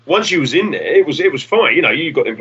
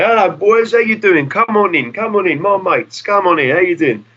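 higher, over-hearty welcome, imitated; friendly pub landlord; 8 semitones higher than usual. Landlord Jack welcoming the boys into his pub, higher and over-friendly. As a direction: play the jolly landlord waving them in. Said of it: "one week he'd say".

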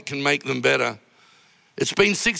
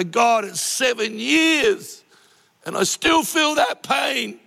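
raised, slow anguished outcry, half shouted; retold cry of pain; 4 semitones higher, slower than usual. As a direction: cry it out slowly to God, pitch climbing into a pained shout. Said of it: "this cry of pain that I go".

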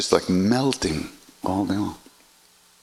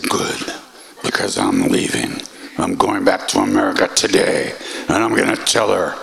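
louder, curt announcement; defiant; 4 dB louder than usual. Retold or imitated. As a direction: declare it like a slammed door.

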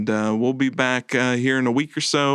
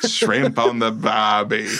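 put-on failed Australian accent; slower than usual. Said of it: "I'm gonna try it".

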